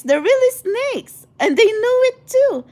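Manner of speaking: rising into an indignant peak; worked-up outburst. Real, not acted. Vlogger warning her tribe about snakes, worked-up and indignant. Heated rant about fake friends.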